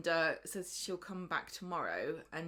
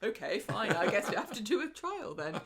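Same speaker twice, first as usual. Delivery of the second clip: mock resignation; 3 semitones higher, 4 dB louder than usual. English people giving in, acted.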